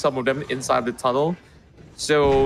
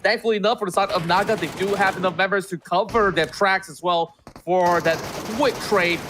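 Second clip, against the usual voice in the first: esports caster; 4 semitones higher than usual. Real, not acted. Caster hypes a fight.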